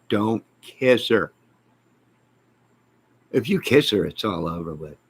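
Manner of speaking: slow, deliberate warning; stern advice to a friend, slowed down. Retold or imitated. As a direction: spell it out slowly. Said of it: "and I told him".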